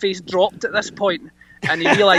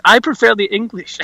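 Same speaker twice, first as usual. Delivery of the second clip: put-on higher-pitched French-accented retort; 5 semitones higher, 4 dB louder than usual. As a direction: imitate a Frenchman's accent for the punchline. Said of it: "That's my French impression".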